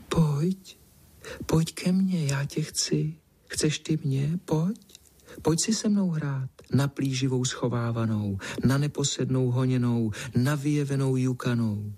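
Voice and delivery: high, hushed, coaxing little voice calling from the field; soft coaxing voice. Acted. Hidden cat coaxing the boy from the corn, hushed and sweet. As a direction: lure him in sweetly, half whispered. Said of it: "tichý, mazlivý hlásek".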